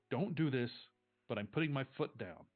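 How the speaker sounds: acted mother laying down the law; firm, insistent objection in an argument; firm refusal. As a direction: put your foot down, emphatically. Mother puts her foot down.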